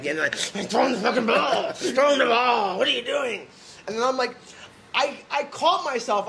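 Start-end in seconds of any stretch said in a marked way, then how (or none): 0.6-3.5 raised, angry ranting at the quarterback; mock psychopath rant. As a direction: yell it like a fan losing his mind. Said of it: "like a psychopath".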